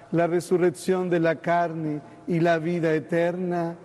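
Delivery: steady liturgical recital, even pace; creed recitation. Acted.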